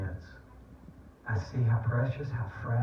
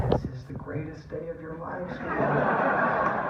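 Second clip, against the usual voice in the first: higher, hushed awe, breaking into a laugh; mock-reverent thrill, pitched up; retold excited dad; 6 semitones higher, slower than usual. Dad to his little daughter about Star Wars, retold excitement.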